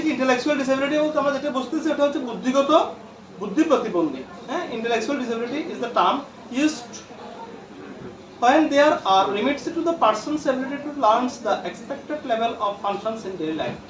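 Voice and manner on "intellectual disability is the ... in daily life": reads the English definition slowly, word by word; slow reading aloud. Shown as a demonstration. Teacher slowly reading a textbook definition to students. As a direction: spell it out slowly for the class. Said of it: "কি বলছে?".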